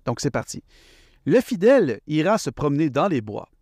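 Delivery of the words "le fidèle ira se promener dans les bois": slow, deliberate poem recital; poem reading. Acted. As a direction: read the verse out slowly, phrase by phrase. Starts reading his poem aloud.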